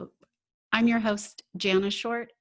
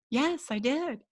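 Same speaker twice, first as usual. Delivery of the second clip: higher, a lightly voiced defiant child; defiant little girl; 5 semitones higher than usual. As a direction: toss it off like a cheeky little girl. Little girl Jessica defiantly admits.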